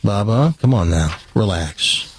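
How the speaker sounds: a lightly voiced soothing grandpa, low on Bubba; retelling a grandpa's calm coaxing at a checkout. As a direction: calmly coax a grandson. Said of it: "in a very calm voice says".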